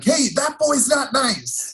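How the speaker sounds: put-on little-girl pout voice; prim, hurt tattling tone; high, slow sweet complaint. Coach retold on bench.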